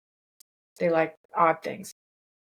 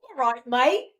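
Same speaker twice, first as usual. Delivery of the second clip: Aussie "All right, mate"; 3 semitones higher, 4 dB louder, slower than usual. Shown as a demonstration. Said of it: "What's that?".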